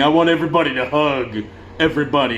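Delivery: imitating a weepy singer; hammed-up tearful plea; sappy, choked-up stage banter; mock crying. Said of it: "he's crying and he won't shut up".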